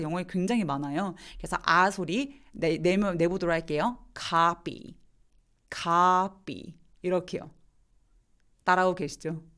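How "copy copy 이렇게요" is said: "copy" with a wide open-jaw ah; saying ahh. Shown as a demonstration. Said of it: "아 소리라서 되게 턱을 많이 벌리거든요".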